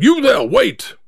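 high, urgent call without full volume; yell. Acted. Narrator runs after the third cab, yelling. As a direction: call after someone driving away. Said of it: "I yelled".

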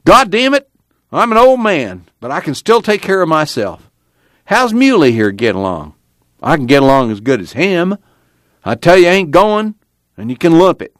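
put-on high, indignant old man's outburst; crying out angrily. A narrator's reading. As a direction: cry out in stubborn protest. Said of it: "Grandpa cried".

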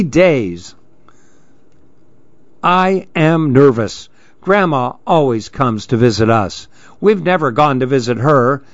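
put-on a child telling her worries. Lil the girl talking about visiting Grandma, earnest child voice.

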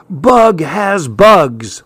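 slow, high, drawn-out teasing; high-pitched playground jeer, stretched out; mocking taunt. A narrator's reading. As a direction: draw it out like a schoolyard taunt. Classmates' taunting joke, quoted.

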